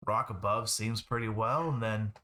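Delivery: lightly voiced gruff miner, slightly lilting; hint of a working miner chatting about the job. Game master voices the miner.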